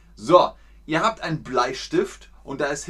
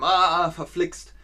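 annoyed exclamation; 5 semitones higher, 3 dB louder, slower than usual. Shown as a demonstration. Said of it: "dann passiert einem".

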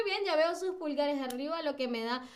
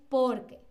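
"porque" as one word, light on "que"; unweighted final E; 4 dB louder than usual. Shown as a demonstration. Teacher shows the answer word, light final E in "porque". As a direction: lean on "por", let "que" drop away. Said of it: "la E no tiene tanto peso ahí".

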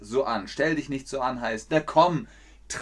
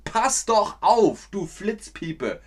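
scolding; 5 semitones higher, slower than usual. Shown as a demonstration. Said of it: "Das würde man sagen".

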